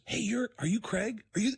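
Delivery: high, eager cruise-director voice; upbeat, peppy. Retold or imitated. Cruise director spotting the voice guy, peppy. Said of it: "She's upbeat. She's peppy".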